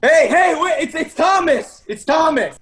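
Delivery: calling up. Acted. Shouting up the tree.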